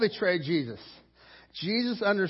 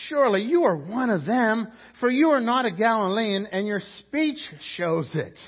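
loud, raised-pitch accusation; accusing; 5 semitones higher, 6 dB louder than usual. Acted. Bystanders confronting Peter over his speech, accusing. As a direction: call it out firmly, easing at the end.

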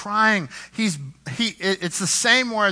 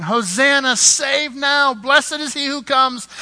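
high, loud crowd acclaim; preacher voicing the crowd's festive shout; crowd shouting hosanna; 9 semitones higher, 6 dB louder, slower than usual. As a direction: call it out like a cheering crowd. Crowd cheering on Palm Sunday.

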